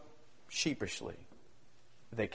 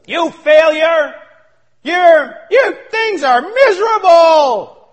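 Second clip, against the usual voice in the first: slow, louder, higher shouted taunts; accuser's taunts; 8 semitones higher, 10 dB louder, slower than usual. Acted. The accuser tormenting you in the morning, slow loud taunting. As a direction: crush the listener with contempt, drawn out. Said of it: "he's still whispering in your ear".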